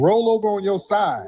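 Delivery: calling out. Real, not acted. Calling to a snoring caller.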